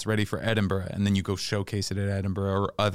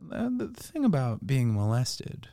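slow, higher, mock-earnest confessional comedian voice; mock solemn comic; 4 semitones higher, slower than usual. Mocking comics who love trauma bits, slow earnest parody. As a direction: parody a stand-up milking trauma, drawn out. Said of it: "They love to fucking be like".

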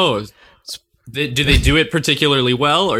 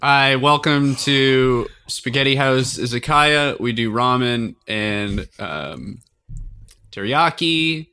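slow, improvised restaurant welcome; restaurant greeter; slower than usual. Pretend. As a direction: play the greeter, drawing the words out slowly. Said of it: "let's role play".

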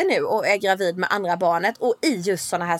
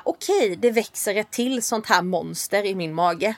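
mock dread; 2 semitones lower, 4 dB quieter, slower than usual. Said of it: "kände jag verkligen så här".

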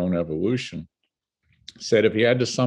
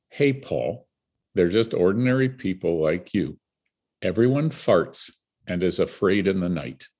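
reassuring soul voice. Retold or imitated. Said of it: "in that deep, all reassuring, all loving voice".

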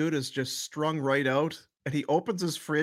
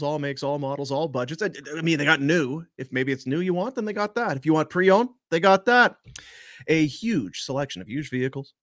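radio ad read; 3 dB louder than usual. Acted. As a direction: sell it like a radio announcer. Reads the sponsor ad.

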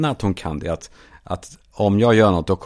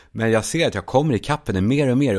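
normal talking voice

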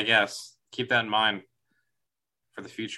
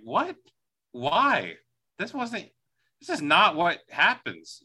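baffled disbelief; 5 semitones higher, slower than usual. Retold or imitated. Retells own baffled reaction to kiss.

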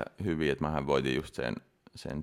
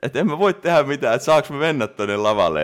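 mock-helpless plea, higher and louder; retold protest, pitched up and loud; helpless pleading; 8 semitones higher, 9 dB louder than usual. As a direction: act out begging to be let through. Retelling helpless plea to get onstage.

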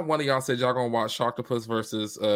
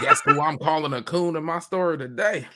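lightly put-on voice for a mock quote; a loose, half-landed celebrity imitation; a rock singer; 3 semitones higher than usual. Podcaster mocking an actor, accidentally channels a rocker, lightly imitated. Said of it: "I just channeled a rock singer".

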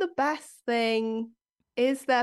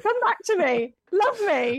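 put-on high, pleading baby talk; whiny pet voice; 10 semitones higher, 4 dB louder than usual. Shown as a demonstration. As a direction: beg the cat to return. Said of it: "that's how I talk to Jekyll".

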